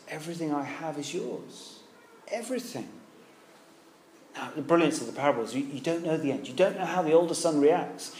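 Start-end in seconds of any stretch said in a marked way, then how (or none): 0.1-2.9 softly spoken, gentle reassurance; tender father. Acted. Father to his bitter older son, tender. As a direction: reassure a hurt son, hushed and unhurried.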